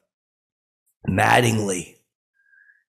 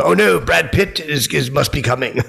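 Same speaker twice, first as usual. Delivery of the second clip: mock alarm; 5 semitones higher, 4 dB louder than usual. Comic to the room, as Jolie walks out, mock alarm. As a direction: feign panic that the star is leaving.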